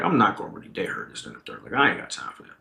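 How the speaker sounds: low, very soft aside; inner thought. Retold or imitated. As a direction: think it to yourself under your breath. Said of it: "uh, in my head".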